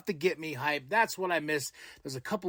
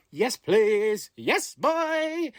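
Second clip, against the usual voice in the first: hyped fan; 5 semitones higher, 4 dB louder, much slower than usual. Retold or imitated. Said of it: "I'm like".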